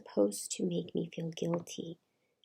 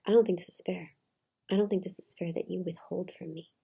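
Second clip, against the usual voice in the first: mildly imitating an angry mother, louder at the start; retold anger; 4 dB louder than usual. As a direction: push the first words in mild mock protest. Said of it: "then she got angry".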